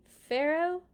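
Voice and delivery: Moses addressing Pharaoh. Acted. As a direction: open boldly to the king. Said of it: "Moses began".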